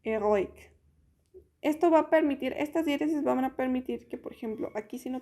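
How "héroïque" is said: heroic as French héroïque, vowels kept apart; o and i split in heroic; French pronunciation. Shown as a demonstration. Teacher showing how héroïque is pronounced. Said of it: "que se pronuncia como".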